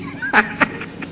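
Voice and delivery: soft, breathy mock giggle; a hidden child's muffled giggle; imitating child's giggle. Grandpa imitating his grandson giggling. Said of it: "And he's laughing".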